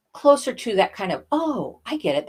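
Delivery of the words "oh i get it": aha moment. Shown as a demonstration. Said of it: "that aha moment".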